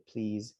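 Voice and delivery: "Please" ending in a buzzing z; soft "Please" with the s voiced; vibrated s. Shown as a demonstration. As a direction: let the final s of "Please" vibrate. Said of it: "that little vibration".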